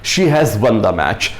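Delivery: very slow, word by word; slow example read. Shown as a demonstration. Teacher showing the perfect tense example, very slow. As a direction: spell the sentence out slowly for learners. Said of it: "देखिएगा has लग रहा है".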